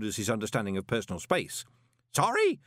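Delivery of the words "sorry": loud, high shouted question; shouting. A narrator's reading. Parker shouting back at Moist's apology, loud. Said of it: "Parker shouted".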